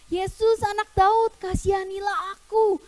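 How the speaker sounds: high, sustained calling out. Acted. Blind man keeps calling Jesus, insistent high cry. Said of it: "Dia teriak makin kenceng".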